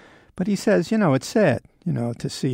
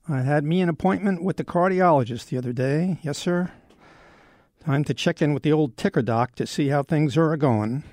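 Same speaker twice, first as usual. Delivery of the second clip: Western talk; 2 semitones higher than usual. Pretend. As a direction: play at an old Western cowboy's way of talking. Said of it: "Why am I talking in Western talk?".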